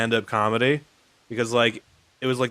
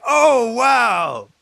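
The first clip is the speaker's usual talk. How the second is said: mock amazed; 4 semitones higher, slower than usual. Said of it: "Just like".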